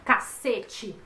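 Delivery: plain short CACETE, falling at the end; cacete, everyday falling tune; intonation demo. Shown as a demonstration. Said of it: "Vem várias entonações".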